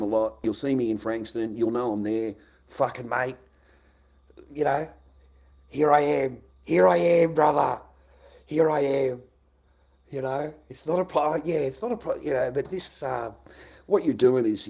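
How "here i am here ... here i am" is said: louder, yelling his whereabouts; shouted dare. Real, not acted. Streamer yelling at the troll to come find him, shouted dare. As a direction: call him out at full volume.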